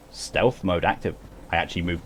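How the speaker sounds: whisper-ish play at sneaking; playing a sneaking robot, quietly; mock stealth mode.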